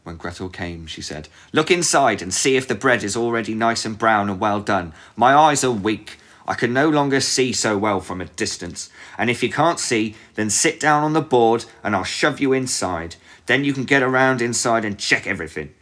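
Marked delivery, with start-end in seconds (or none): 1.5-10.1 high, loud crafty witch; scheming witch. Acted. Witch tricks Gretel. 10.3-13.2 high, loud crafty witch voice; scheming witch. Acted. Witch says it, Gretel echoes. 13.5-15.7 high, loud crafty witch; scheming witch. Acted. Witch tricks Gretel.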